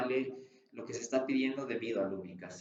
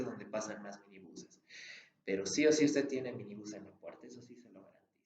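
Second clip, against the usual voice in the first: tone of complete sincerity. Shown as a demonstration. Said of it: "ese es otro ejemplo de cómo utilizar el tono de completa sinceridad".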